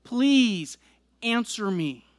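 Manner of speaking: begging plea. Acted. Preacher voicing psalmist begging God, pleading. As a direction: beg God to answer, with rising urgency. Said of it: "he's begging God".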